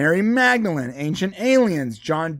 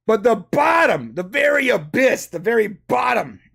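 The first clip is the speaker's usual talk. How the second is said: dramatic build-up; 4 semitones higher than usual. Acted. Revealing the iceberg's bottom tier, mock-dramatic. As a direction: build suspense toward the abyss.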